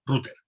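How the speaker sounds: "router" as Spanish RU-ter, stressed on U; pronunciación españolizada. Shown as a demonstration. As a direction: hit the U in "router", said rúter. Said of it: "con tilde en la U porque es una palabra". ("router" como palabra llana, rúter)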